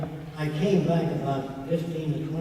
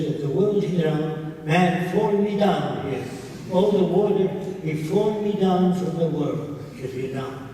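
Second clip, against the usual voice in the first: slow, louder broken-English protest; slow, louder insistent imitation; 2 semitones higher, 3 dB louder than usual. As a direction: argue like a stubborn old leader who is sure the earth is flat. Imitating Elbaz's flat-earth argument.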